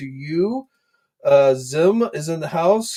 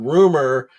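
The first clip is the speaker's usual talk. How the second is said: "rumor" drawn out with a raised pitch peak; stress on rumor; 5 dB louder than usual. Real, not acted. Host cautioning viewers about unconfirmed figures, stress on "rumor". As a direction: lean slowly and firmly on "rumor". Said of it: "I do emphasize the word".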